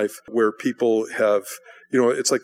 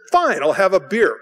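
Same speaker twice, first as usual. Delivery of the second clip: louder, higher, grudging surrender; exasperated giving in; 7 semitones higher, 5 dB louder than usual. Retold or imitated. Guest giving in to pushy brothers, exasperated. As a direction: act out caving under pressure. Gives in to the nagging.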